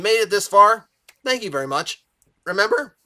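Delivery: tired voice cracks mid-sentence; voice cracking. Real, not acted. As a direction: voice breaks on a high note. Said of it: "Voice crack like I just hit puberty".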